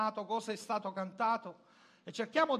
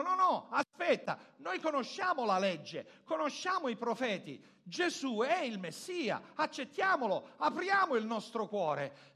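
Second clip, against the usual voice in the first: higher-pitched quoted appeal, mildly urgent; urgent imagined plea; 4 semitones higher, 3 dB louder than usual. Retold or imitated. Preacher voices what the scholars should have said, urgent imagined plea. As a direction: plead it as the learned men should have.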